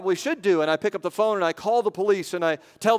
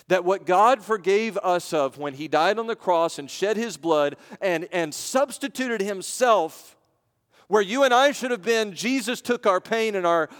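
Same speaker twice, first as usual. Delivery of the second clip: raised pitch, emphatic phrasing; impassioned preaching; 4 semitones higher than usual. Real, not acted. Preacher telling the congregation of the cross, impassioned. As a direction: press the message with rising fervor.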